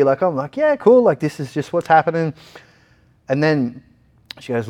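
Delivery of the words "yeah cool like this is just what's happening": high, breezy acceptance; cheery. Retold or imitated. Patient to the doctors, breezy and high. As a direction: shrug it off brightly. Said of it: "I'm still pretty cheery".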